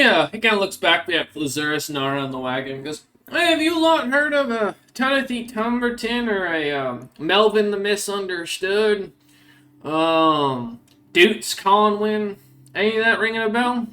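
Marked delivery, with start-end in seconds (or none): 3.3-13.9 higher-pitched monster hunter questioning strangers; hooded stranger asking around. Acted. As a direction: call the question over in a higher character voice. Stranger questions party on wagon.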